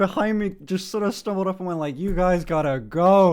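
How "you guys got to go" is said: loud, slow, blunt, deliberate delivery. Retelling a friend stepping in: imitating someone saying it loudly. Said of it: "that was really loudly from".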